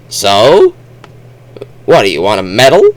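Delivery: mock bored put-down; unimpressed Martians. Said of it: "all the Martians are like".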